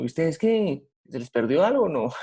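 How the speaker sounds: a hint of a gruff "what do you want"; rude, dismissive tone. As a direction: brush them off like an annoyed stranger. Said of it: "no lo está diciendo en un tono así como".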